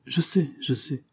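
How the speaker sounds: a touch of a grumbling, irritated inspector; furious grumble. A narrator's reading. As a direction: cut him off, annoyed and impatient. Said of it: "en grommelant furieux".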